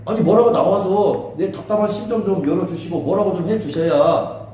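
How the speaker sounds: mildly exasperated appeal to God; acted protest. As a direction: plead for an answer, frustrated. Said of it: "하나님을 향해서 막 항의를 하잖아". (하나님께 답답한 듯 항의하는 흉내)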